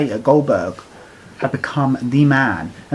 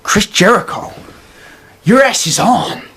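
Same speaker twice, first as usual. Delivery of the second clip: mock Goldberg promo; 2 semitones higher, slower than usual. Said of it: "given this line".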